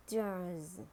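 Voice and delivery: "jars" with a sounded American R; American "jars", curl the R before s; American accent. Shown as a demonstration. Teacher models jars for learners, American accent. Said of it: "R in American English".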